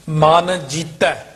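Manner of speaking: MAN, then JEETAI with open -ai ending; two separate words. Shown as a demonstration. Teacher separating ਮਨ from ਜੀਤੈ, slow with open -ai. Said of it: "ਇਹ ਹੈਗਾ ਦਲਾਈਆਂ".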